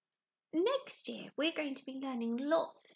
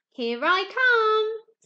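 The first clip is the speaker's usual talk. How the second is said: excited reply; 9 semitones higher, 13 dB louder, much slower than usual. Acted. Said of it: "said the rainbow fish".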